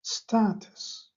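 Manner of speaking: استاتس drawn out slowly, every sound clear; teacher repeating استاتس slowly; slow model word. Shown as a demonstration. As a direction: stretch استاتس out slowly, syllable by syllable. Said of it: "این کلمه استاتس".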